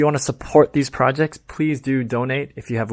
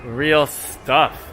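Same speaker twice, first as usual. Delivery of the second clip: mock tourist vlogger. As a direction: lay the fake outrage on with a straight face. Satirical tour commentary.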